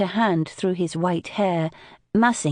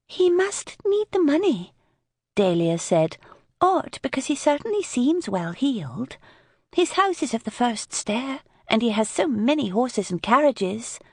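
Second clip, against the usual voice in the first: put-on higher young woman's voice, puzzled; wondering aloud, a little higher; 6 semitones higher than usual. A narrator's reading. Dahlia character voice.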